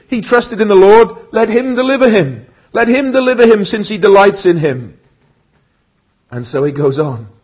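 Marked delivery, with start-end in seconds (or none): 0.1-5.0 high, loud jeering taunt; a preacher voicing the crowd that mocks the sufferer, jeering; mocking onlookers. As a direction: sneer it like the scoffers at the cross. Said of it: "All those who see me ridicule me".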